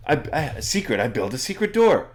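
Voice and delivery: high, stammering excitement; really excited. Acted. Elmo won't calm down about his secret door, excited. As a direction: trip over the words in excitement. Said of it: "he starts getting really excited".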